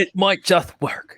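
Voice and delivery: slow, pinched nasal voice. Retold or imitated. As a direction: squeeze it through the nose, slowly. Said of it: "I'm trying to do the voice".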